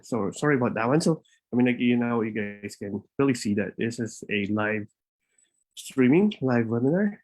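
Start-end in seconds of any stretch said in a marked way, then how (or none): 2.2-7.2 slightly winded, catching breath; talking while short of breath. Real, not acted. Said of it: "trying to catch my breath here".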